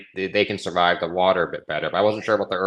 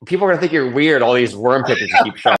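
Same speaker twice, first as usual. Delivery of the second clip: lightly imitated wife, higher pitch; mock spousal warning, pitched up; wife's teasing warning; 4 semitones higher, faster than usual. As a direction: retell the wife's warning in a raised voice. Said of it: "She's like".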